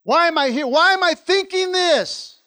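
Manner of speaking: loud, high, desperate questions; anguished outburst. Retold or imitated. Preacher acting out a believer's regret, loud anguished cry. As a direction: cry out at yourself, what am I doing. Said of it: "Had one of those moments".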